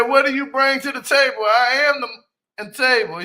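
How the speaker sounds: loud, high, punchy re-quote of the line; hyped quote. Retold or imitated. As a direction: shout it like a mic-drop boast.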